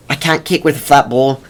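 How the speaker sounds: put-on lighter, weaker Australian accent; the punter repeating his complaint, accent fading; a faint Australian accent; bad Australian accent. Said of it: "not a good Australian accent".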